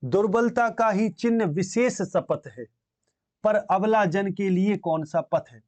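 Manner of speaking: slow, measured verse reading; poem recitation. Acted. Teacher reciting Kaikeyi's plea to students, slow verse recitation. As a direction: recite the verse slowly, stretching the words.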